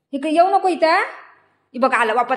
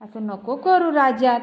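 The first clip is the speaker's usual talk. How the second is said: gentle plea; slower than usual. Real, not acted. Gently asking child to stop. (हळू प्रेमळ विनंती)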